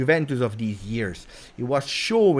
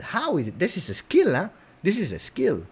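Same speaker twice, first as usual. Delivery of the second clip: ordinary delivery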